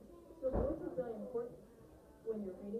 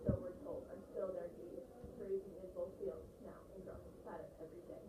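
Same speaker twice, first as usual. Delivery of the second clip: mumbled, low-energy story reading; voiceless read-aloud; 3 semitones lower, 4 dB quieter than usual. Shown as a demonstration. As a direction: read it with no expression at all. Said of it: "I was mumbling".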